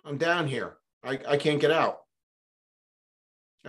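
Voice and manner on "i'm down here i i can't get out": louder, higher mock call to a friend; retold yell for help, higher and louder. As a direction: holler up to a buddy passing by the hole. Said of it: "He yells up".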